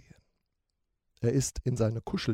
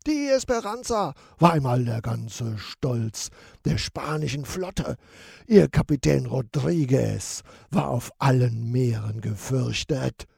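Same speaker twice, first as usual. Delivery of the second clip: calling out; 5 dB louder than usual. Acted. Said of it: "ruft Sharky".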